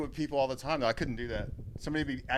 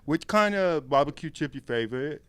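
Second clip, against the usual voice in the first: mock Asian accent; 6 dB louder than usual. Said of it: "if I try to do Down's accent, it sounds Asian".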